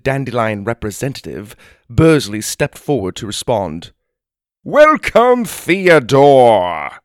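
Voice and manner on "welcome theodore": cheery greeting. Acted. Bursley greets the giant.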